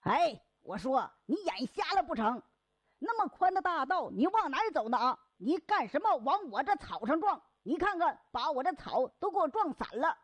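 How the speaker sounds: quarrelling. Acted. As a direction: tear into the clumsy stranger. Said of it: "这两个人就吵起来了".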